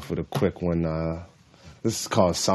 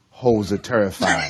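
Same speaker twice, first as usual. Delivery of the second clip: laughing; 3 dB louder than usual. Real, not acted. Laughs reading own line.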